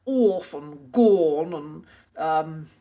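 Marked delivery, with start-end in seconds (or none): 0.1-0.5 put-on "off" said as old-fashioned "orf"; posh "orf" for "off"; heightened RP pronunciation. Shown as a demonstration. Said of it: "speak in heightened received pronunciation and say". 0.9-1.5 put-on "gone" said as old-fashioned "gorn"; posh "gorn" for "gone"; heightened RP pronunciation. Shown as a demonstration. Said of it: "heightened received pronunciation and say".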